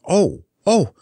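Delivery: put-on a girl near panic; crying out. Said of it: "cried Dorothy".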